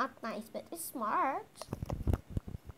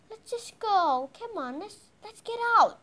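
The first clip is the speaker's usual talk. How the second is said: impatient, pushy call with louder bursts; urging; 5 semitones higher, 7 dB louder than usual. Pretend. Mom hurrying sleepy kids out of the car, urging. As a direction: chivvy them out of the car.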